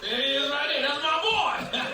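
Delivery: rising, delighted fatherly exclamation; mock proud father. Comedian as dad watching the commercial, mock proud excitement. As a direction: build to a proud boast, hammed up.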